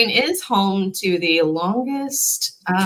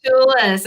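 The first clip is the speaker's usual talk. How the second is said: Chopatulas with the TOO lifted; higher teaching repeat of Chopatulas; emphasis late in word; 4 semitones higher than usual. Shown as a demonstration. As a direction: raise the TOO in Chopatulas, chop-uh-TOO-lis. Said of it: "move that accent way down in the word".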